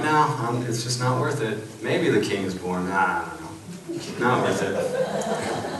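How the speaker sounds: slow, lazy, laughing mock indifference; mock apathetic shrug. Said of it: "They're like".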